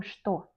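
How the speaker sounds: "что" said with sh, SHTO; Russian pronunciation demo. Shown as a demonstration. Teacher showing how it is pronounced, "что" as shto. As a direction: turn the ch of "что" into sh. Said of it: "on prononce comme что".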